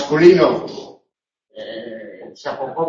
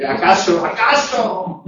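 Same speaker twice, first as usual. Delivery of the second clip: mock incredulous; 4 semitones higher, slower than usual. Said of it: "mock incredulous echo".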